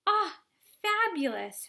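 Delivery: high, loud rapture; delighted shout. Acted. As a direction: cry out in delight. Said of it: "shouted Violet".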